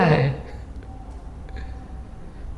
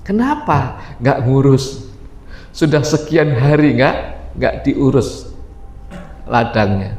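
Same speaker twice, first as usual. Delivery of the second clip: lower, concerned question; Salman asking; 8 semitones lower than usual. Acted. Salman asks the wife why her husband neglects her, lower voice. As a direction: ask low and concerned.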